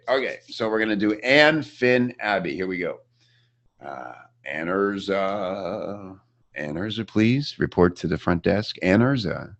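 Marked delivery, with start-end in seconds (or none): 3.8-9.5 slow drawn-out announcer page; flat echoey pa page. Pretend. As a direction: call it like an intercom page. Mock front-desk page call.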